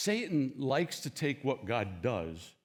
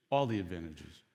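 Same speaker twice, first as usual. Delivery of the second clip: all the advantages repeated much lower and softer; quiet echo; 11 semitones lower, 6 dB quieter than usual. Shown as a demonstration. Stressing Elijah's generosity to the crowd, soft echo. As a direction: let the repeat drop to a hush.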